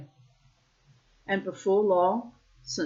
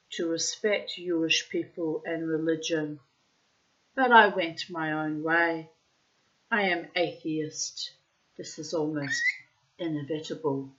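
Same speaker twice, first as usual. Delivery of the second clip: put-on Russian accent. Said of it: "I'm putting in the Russian accent".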